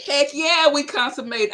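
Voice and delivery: high, punchy mock enthusiasm; hammed-up eager agreement; eager husband's retort. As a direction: imitate a husband chiming in, loud and keen. Husband's eager quote, retold.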